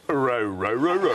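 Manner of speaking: a mock dog barking "Row, row" in a Northern Irish accent. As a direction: bark it like a Belfast dog. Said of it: "this dog came up to me and went like this".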